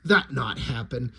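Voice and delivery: very low savoring repeat of the alien line; echoing the lizard, low and dry; deadpan alien. Retold or imitated. Host relishing the lizard's line, very low. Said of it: "I laughed so hard".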